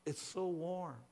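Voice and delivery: slow, savoring relief; gently relieved, unhurried. A narrator's reading. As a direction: draw it out with contentment. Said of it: "sighed as her chill began to pass".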